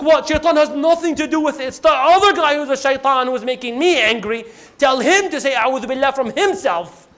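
mildly heated, acted objection; indignant protest. Angry man refuses advice and blames his opponent, acted indignation. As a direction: push the blame onto the other guy.

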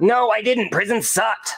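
high, whiny denial; indignant whine. Acted. Cody corrects friends about prison, indignant and high.

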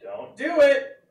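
quick high warning; sharp warning. Acted. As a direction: snap out the warning. Button barks its warning.

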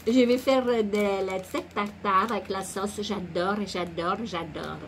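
slow, mock-regional French accent; improvised comic accent; put-on accent. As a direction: draw the phrase out in a made-up accent. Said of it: "Alors, avec l'accent".

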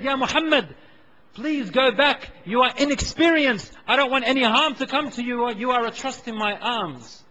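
urgent plea. Retold or imitated. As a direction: begs the boy to turn back. Pleading with the boy.

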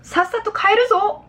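high-pitched, insistent fatherly command; acted stern exclamation; firm order. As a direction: forbid it and order them home. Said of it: "약간 남자 용어를 쓴".

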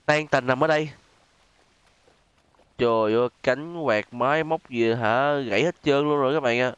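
ordinary talk

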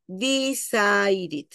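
drawn-out "decided" ending in "id". Shown as a demonstration. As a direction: stretch "decided", last vowel an I. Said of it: "la E cambia por sonido de I".

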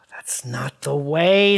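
low, soft graceful demo, sighed. Shown as a demonstration. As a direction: show her the elegant way. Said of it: "Like this".

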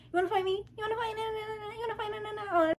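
high mock taunt; taunting her rival in a high mocking voice. Rival squaring up, mocked in a high taunt. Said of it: "she was like".

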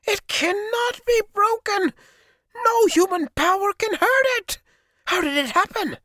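very high, loud crying protest; grief-stricken wail. A narrator's reading. Sorcerer mourns his broken mask, wailing high and loud. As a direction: wail it out in despair. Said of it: "screamed like the mother of a dead child".

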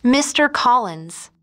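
lightly voiced doleful lament. A narrator's reading. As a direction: stretch the name out as if wronged. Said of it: "In a doleful voice".

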